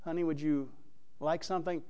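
softly asked, mild acted sweetness; gentle offer. Acted wife offers tired husband something, softly solicitous. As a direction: ask gently, as an attentive wife would.

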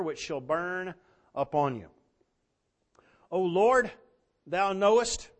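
measured pulpit reading of the verse; scripture reading. Acted. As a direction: read it like a preacher lifting the text. Reads Jeremiah aloud.

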